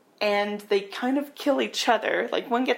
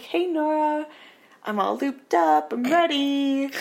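higher, louder eager call; eager lover; 7 semitones higher, 3 dB louder than usual. Retold or imitated. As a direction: sound keen and ready. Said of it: "he's like".

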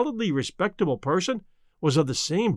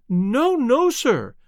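higher, louder, pleading; woman's plea; 9 semitones higher, 4 dB louder, much slower than usual. A narrator's reading. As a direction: rush in begging to protect her husband. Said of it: "It was a woman's voice".

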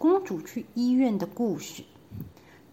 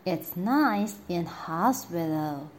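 coaxing queen; 2 semitones lower than usual. Acted. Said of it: "said the queen".

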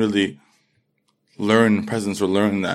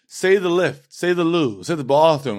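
higher-pitched mimicry of nagging kids; pestering schoolmates; 7 semitones higher than usual. American schoolkids goading a London boy about his accent, pestering. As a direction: imitate people egging on the new kid. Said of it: "people kept being like".

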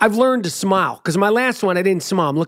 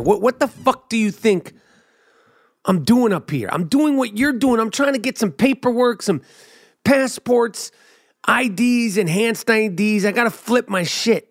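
pretend rant; 5 semitones higher than usual. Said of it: "I didn't say it like that".

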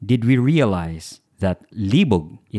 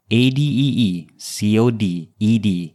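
spelled out. Shown as a demonstration. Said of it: "cleverly titled".

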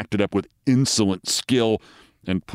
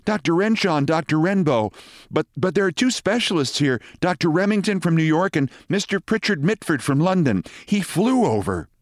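high-pitched nurse voice, eager report; nurse with news; 8 semitones higher than usual. A narrator's reading. Nurse briefs the surgeon on the case, in a high nurse voice.

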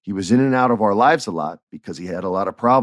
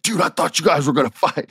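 much higher-pitched incredulous buddy; retold alarm; 9 semitones higher than usual. Wrestler to teacher after the near fight, high incredulous imitation. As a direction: imitate a startled friend, pitched way up. Retold Cardona's excited reaction to clash.

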